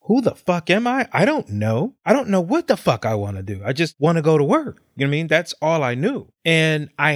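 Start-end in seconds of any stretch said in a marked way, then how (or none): 0.0-4.8 stunned self-quote. Retold or imitated. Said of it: "And I'm like".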